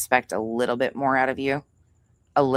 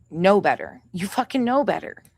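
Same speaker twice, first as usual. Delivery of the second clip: pitched way up, fed-up scolding; real irritation; 7 semitones higher than usual. Real, not acted. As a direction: scold them for knowing better, genuinely fed up. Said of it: "Sorry, I'm irritated".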